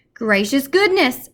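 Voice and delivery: slow, high and loud astonished cry; exclaiming. A narrator's reading. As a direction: gasp it out in amazement. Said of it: "exclaimed Missus Popper".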